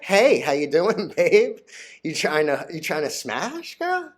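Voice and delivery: a hint of a slow pickup-artist croon; mild mock flirt; lightly voiced smooth pickup line. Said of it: "I'm like".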